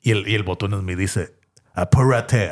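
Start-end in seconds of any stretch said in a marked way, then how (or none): 1.7-2.5 put-on foreign-accented Spanish, drawn-out vowels; bellhop's accent. Zombie bellhop hurries a slow walker, in a foreign accent. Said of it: "así con el acento".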